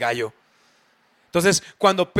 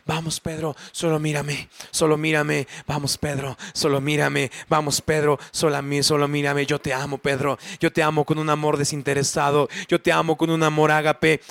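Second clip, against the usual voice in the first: low, gently insistent coaxing; tender pleading; 3 semitones lower than usual. Acted. Jesus to weeping Peter after the denial, tender pleading. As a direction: plead lovingly, over and over, to be looked at. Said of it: "Pedro está llorando y Jesús está diciendo como".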